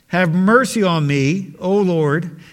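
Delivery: lightly voiced pleading mother, slow; pleading woman. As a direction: beg for mercy, drawn out and slow. Voicing the pleading Canaanite woman.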